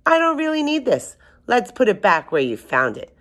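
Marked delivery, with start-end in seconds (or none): 0.1-1.7 measured read-aloud storybook voice; story narration. A narrator's reading. 2.3-3.1 measured read-aloud storybook voice; story narration. A narrator's reading.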